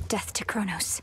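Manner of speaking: whispered. Acted. Solemn salute.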